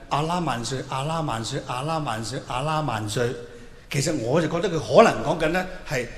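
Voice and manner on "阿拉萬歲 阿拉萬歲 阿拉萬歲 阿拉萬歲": mumbled chant. Retold or imitated. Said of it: "喃喃自語".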